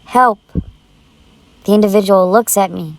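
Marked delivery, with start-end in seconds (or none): 0.0-0.4 higher, urgent cry for help; yelling help. Retold or imitated. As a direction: shout for help to someone at the gym. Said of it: "I yell out".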